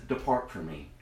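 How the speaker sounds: low, soft judgement; God dismissing the unfaithful, low and solemn; God's stern verdict. Acted. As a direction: pronounce it like a judge. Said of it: "and he says".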